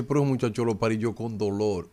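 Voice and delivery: mock suffering mother. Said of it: "mi mamá cada vez que dice".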